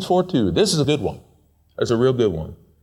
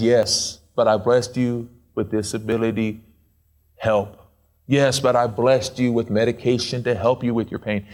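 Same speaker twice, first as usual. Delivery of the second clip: gentle God voice; 4 semitones lower than usual. Retold or imitated. God answering the whining believer, low and reassuring. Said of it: "And then God says".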